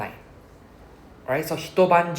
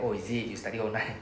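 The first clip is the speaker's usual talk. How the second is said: sarcastic; 2 semitones lower, 5 dB quieter, faster than usual. Retold or imitated. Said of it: "the sarcasm".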